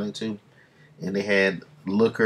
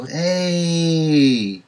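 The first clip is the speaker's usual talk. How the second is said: excited shout; 8 semitones higher, 6 dB louder than usual. Real, not acted. Spots hometown bridge on screen.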